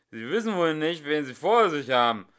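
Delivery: loud angry shout; furious drunk bluster; sudden anger. Acted. Singer yells at the old couple in sudden anger. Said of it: "rief er mit plötzlichem Zorn".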